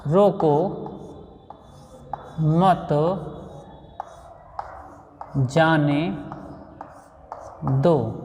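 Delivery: "रोको", "मत", "जाने", "दो" word by word, long pause after each; unpunctuated reading. Shown as a demonstration. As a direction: spell out "रोको मत जाने दो" one slow word at a time. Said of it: "स्पष्ट नहीं हो रहा". ("रोको मत जाने दो" हर शब्द अलग, रुक-रुक कर)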